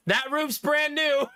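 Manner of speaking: drawn-out mock-innocent dig at the saleswoman; petty retort. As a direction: land it like a petty gotcha. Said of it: "I'm so petty sometimes".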